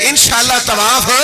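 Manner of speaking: preacher voicing Abu Bakr's angry rebuke. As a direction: scold him sharply, punching each کریں گے. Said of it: "ابو بکر صدیق غصے میں آ گئے".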